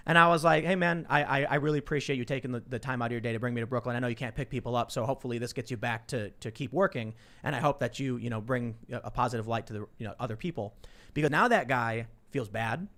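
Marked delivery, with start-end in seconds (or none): 0.7-10.8 acted heartfelt thanks, easing down gently; sincere appreciation. Passenger thanking the cabbie for the ride, calm and sincere.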